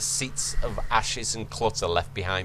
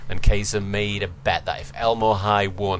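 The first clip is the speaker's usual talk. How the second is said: ordinary delivery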